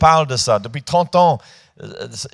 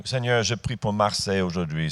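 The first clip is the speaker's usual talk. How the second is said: lower, softer imitation of praying; pretend dutiful prayer; 5 semitones lower, 5 dB quieter than usual. Preacher imagining a prayer for Marseille at home, mock dutiful murmur. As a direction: drop into a muted mock prayer.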